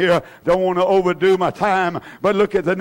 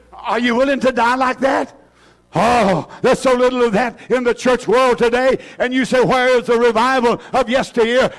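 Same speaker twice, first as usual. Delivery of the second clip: raised, forceful pulpit voice; impassioned preaching; 5 semitones higher than usual. Real, not acted. Preacher challenging the church about revival, impassioned preaching. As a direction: preach it high and strong.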